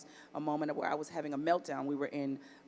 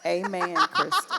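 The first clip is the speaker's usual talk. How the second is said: laughing, moved; 9 semitones higher, 9 dB louder, slower than usual. Real, not acted. Moved answer to daughter's prayer.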